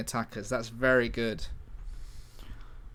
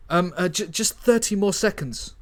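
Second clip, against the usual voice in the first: higher, urgent plea; buy time, he's still typing; urgent hacker; 5 semitones higher, 4 dB louder than usual. Acted. Dingo to his team while typing code, urgent.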